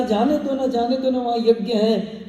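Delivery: high, coaxing plea; pleading wife. Acted. Sati coaxes Shiva to let her go to the yajna, high and wheedling. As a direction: wheedle him like a pouting wife.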